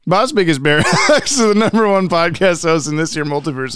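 lightly voiced Old West prospector; old-timey prospector voice. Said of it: "Old timey prospector voice".

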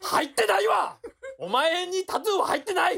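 high, loud protest; loud denial. Real, not acted. Shouting at his friend that he has no tattoo, loud denial. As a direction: yell the denial at full volume. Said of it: "なんでこんなに大声で否定してんのかね".

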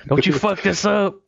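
mock angry warning, high-pitched; retold warning. Co-star warning the man not to ruin it, mock angry. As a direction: imitate a threatening co-star without shouting.

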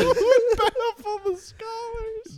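slow, high, laughing delivery; stretched giggling mock-grand line. Real, not acted. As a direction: drag it out while laughing. Friends riffing laughing.

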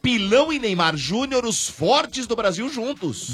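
enthusiastic radio commercial pitch; ad read. Acted. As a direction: hype it up for listeners. Sponsor ad read to listeners.

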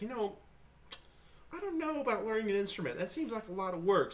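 high, whiny put-on voice; lazy whiny. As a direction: sound like you can't be bothered. Lazy inner voice about band.

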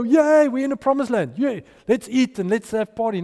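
a mock party cheer; mock celebration. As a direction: Israelites lightly mocked as celebrating in the promised land. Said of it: "they didn't go".

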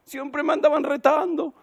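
high mock complaint of the younger daughter; hija quejosa. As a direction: whine theatrically about the old folks. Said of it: "¿Cómo recordará el hogar?". (queja exagerada de hija, voz aguda)

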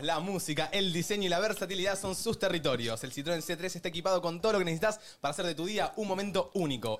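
lectura de anuncio. Acted. Reads the Citroën sponsor ad.

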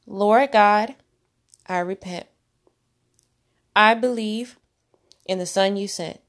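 short prayer phrases with long pauses; measured repeat-after-me prayer; leading a prayer. Acted.

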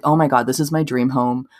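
a hint of a gushing Paris Hilton; barely shifted from her own voice, just quoting; Paris voice, lightly done. Podcaster quoting the heiress on her dream home, a light impression. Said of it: "I'm just doing her voice".

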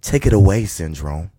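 slow hyped-up host intro; show announcer. Acted.

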